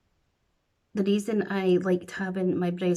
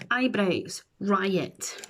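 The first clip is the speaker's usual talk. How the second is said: usual speaking voice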